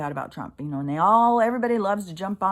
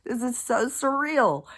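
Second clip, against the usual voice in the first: a real what-the moment; stunned disbelief; 7 semitones higher than usual. Real, not acted. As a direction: pitch jumps high on what. Reacting to the comments.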